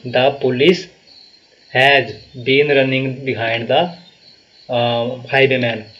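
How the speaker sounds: "has been running behind" read very slowly, word by word; slow wrong version. Shown as a demonstration. Teacher reads students the wrong sentence, very slow and deliberate. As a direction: lay out the faulty sentence slowly for correction. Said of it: "behind यहाँ पे नहीं होगा".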